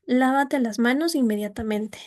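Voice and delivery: "Lávate las manos inmediatamente" rising at the start, then falling steadily; strong lift on "Lávate", sink through "inmediatamente"; command tune. Shown as a demonstration. Teacher demonstrating an order to students, rise then gradual fall. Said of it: "Sube, asciende el tono ... va bajando progresivamente".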